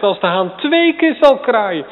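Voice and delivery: Jesus's warning preached loudly; forceful repeat. Shown as a demonstration. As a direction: hammer the warning home. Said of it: "repeated with force".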